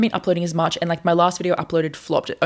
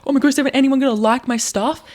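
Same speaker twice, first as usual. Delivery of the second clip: higher-pitched fretting, lightly acted; mock anxious; 3 semitones higher than usual. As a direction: imitate your own anxious worrying. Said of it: "I get anxious".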